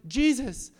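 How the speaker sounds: panicked call. Retold or imitated. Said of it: "they're like".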